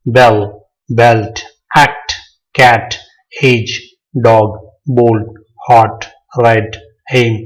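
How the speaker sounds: each word alone, falling, with a pause after; measured word-by-word list with falling tone; one-syllable word demo. Shown as a demonstration. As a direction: read out the list as separate single beats. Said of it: "आवाज में अदा होने वाले".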